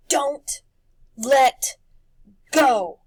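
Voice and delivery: high, loud anxious plea; scared plea. Acted. Boy stepping into the mist, calling out scared. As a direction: beg your friend not to let go.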